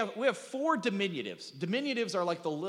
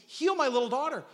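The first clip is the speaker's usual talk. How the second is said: mock begging plea; 5 semitones higher than usual. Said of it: "she begs Jesus".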